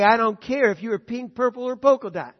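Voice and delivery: mock defensive white man. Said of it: "don't let him say".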